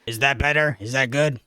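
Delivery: ordinary talk, nothing marked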